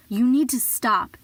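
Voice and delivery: a grandmotherly warning that won't be argued with; stern older coworker, slow and insistent. Retold or imitated. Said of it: "She looked at me very sternly".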